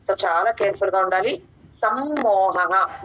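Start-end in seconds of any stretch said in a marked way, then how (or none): 1.7-3.0 సమ్మోహః very slowly, lips pressed tight on మ్మో; సమ్మోహః with a long held మ్మ and a clear హ echo after the visarga. Shown as a demonstration. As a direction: double the మ్మ with closed lips and breathe out the final హః. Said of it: "పెదాలు బిగించి చెప్పాలి".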